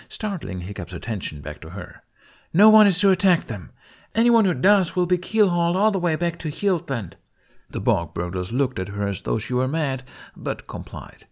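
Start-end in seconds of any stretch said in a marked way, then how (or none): 2.5-7.2 loud, high captain's threat; stern command. Acted. Kamikaze warning her warriors, stern command. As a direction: lay down the law to the crew.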